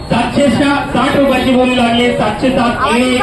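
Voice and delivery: calling out bids at a shop auction; auctioneer. Real, not acted.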